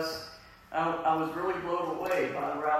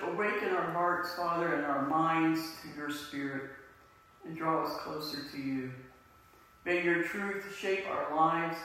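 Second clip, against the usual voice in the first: prayer. Acted. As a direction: pray it out, steady and reverent. Pastor leads opening prayer.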